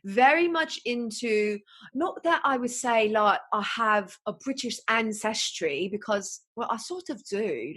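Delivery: put-on British monologue voice; British accent. Telling listeners about talking to the mirror, in a British accent. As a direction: chat in an affected British accent. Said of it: "I speak in a British accent".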